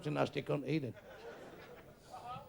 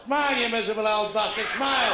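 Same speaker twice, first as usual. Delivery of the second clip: mock shout; 4 semitones higher than usual. Real, not acted. Comic barks at an old man.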